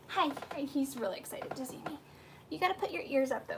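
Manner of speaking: normal talking voice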